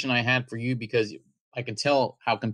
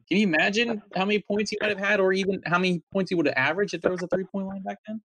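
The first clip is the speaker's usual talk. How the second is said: high, amused voice through laughter; pitched up with amusement; laughing question; 9 semitones higher than usual. Real, not acted. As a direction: ask it while chuckling.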